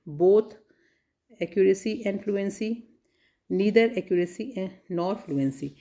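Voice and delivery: slow, careful reading of the options. Shown as a demonstration. Teacher reading answer options to students, slowly. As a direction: read each choice out slowly.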